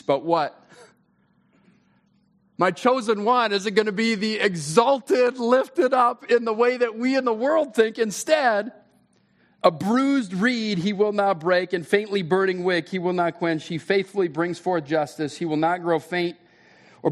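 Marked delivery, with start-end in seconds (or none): 2.6-11.7 forceful preaching. Real, not acted. Pastor pressing the congregation on Isaiah, in a forceful preaching voice. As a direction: lift it up like a rallying cry. Preacher building to emphatic point.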